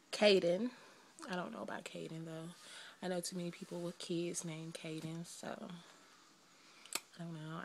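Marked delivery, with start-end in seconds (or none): 1.3-7.6 softer and softer to a whisper; trailing off quietly. Real, not acted. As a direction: let it fade out, unsure. Doubting the name Caden.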